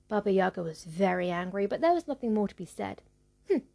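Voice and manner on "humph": a brief, dismissive "humph"; short snorted humph. A narrator's reading. Baba Yaga with nothing more to say, snorting. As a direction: snort it out in one short puff. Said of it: "she snorted".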